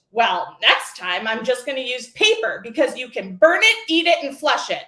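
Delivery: lightly emphatic imitation of a student exclaiming; retold exclamation. Student confronted over her document, exclaiming. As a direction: exclaim it, building toward the end. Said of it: "she exclaimed".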